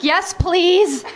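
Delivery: high, mock-eager reply; hammed-up keenness; eager acceptance. Acting out her eager reply.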